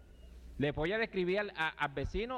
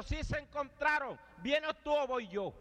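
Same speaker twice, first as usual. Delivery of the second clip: slow taunting reply; 8 semitones higher, slower than usual. Retold or imitated. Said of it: "dice el otro".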